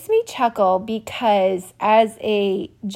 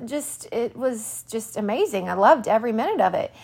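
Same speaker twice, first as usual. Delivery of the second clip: sarcastic. Real, not acted. Ironic about the ER ordeal.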